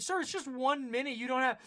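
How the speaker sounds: pushy canvasser. Retold or imitated. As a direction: play the insistent street fundraiser. Pushy canvasser voiced in story.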